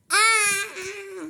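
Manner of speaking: a short high startled cry; sudden cry. Real, not acted. Child suddenly cries out, a short yelp. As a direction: let out a quick yelp. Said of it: "niye böyle bağırdın?".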